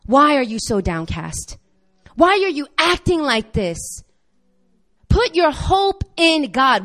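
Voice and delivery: steady rebuke, slowing on the last line; firm self-talk. Retold or imitated. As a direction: talk sense into yourself. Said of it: "he says".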